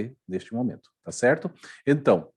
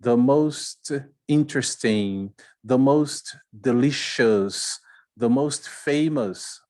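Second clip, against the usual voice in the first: the most, spoken slowly for learners; slow model phrases; 3 dB louder, much slower than usual. Shown as a demonstration. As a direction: spell each phrase out slowly. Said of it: "I say". (devagar, para os alunos repetirem)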